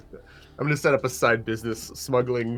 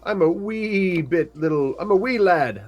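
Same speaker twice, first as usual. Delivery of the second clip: high, louder little lad protesting; a small halfling jumping in to defend his friend; eager wee halfling; 5 semitones higher, 4 dB louder than usual. Acted. Player voices halfling arguing with mother.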